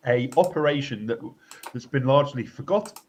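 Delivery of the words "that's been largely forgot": talking through hiccups; words broken by hiccups. Real, not acted. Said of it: "I'm hiccuping".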